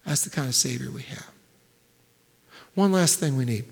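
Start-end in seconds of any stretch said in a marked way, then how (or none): 0.0-1.3 sudden whisper after the big build; hushed whisper. Acted. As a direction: drop to a whisper to land the point. Hushed climax after loud build.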